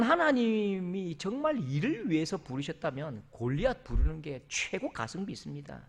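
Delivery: normal talking voice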